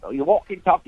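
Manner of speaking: quick, cut-off Cockney demonstration; clipped Cockney. Shown as a demonstration. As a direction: clip "walk" and "talk" short like a Cockney. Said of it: "they clip everything".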